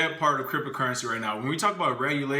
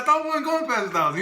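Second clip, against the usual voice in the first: retold alarm; 11 semitones higher, 4 dB louder, faster than usual. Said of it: "I was like".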